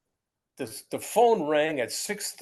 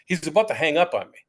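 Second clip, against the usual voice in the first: loud, urgent aside; hammed-up alarm at losing the call; retold panic; 6 dB louder than usual. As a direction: blurt it out in mock panic. Panics the call will end.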